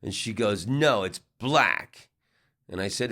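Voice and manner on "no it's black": slow, higher mock insistence; insistent contradiction. Drunk woman disputes the suit's color, mock-insistent. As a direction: lightly imitate a stubborn, mean woman. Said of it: "she was a little mean".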